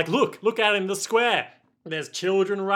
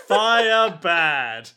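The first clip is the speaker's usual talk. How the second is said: Frankenstein's monster; 6 dB louder than usual. Retold or imitated. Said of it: "Frankenstein's monster".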